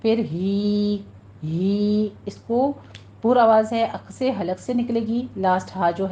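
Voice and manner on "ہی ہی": ہی said with a thin breathy throat ha; thin ha sound. Shown as a demonstration. Teacher showing the thin ہی sound. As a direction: breathe out ہی lightly. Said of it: "باریک آواز کے ساتھ".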